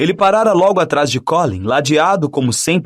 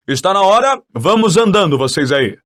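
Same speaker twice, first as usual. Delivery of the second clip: mild call to pupils, pitch raised; 4 semitones higher than usual. A narrator's reading. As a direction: hurry them along brightly. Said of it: "gritou Lockhart para os alunos". (chamando os alunos, sem gritar muito)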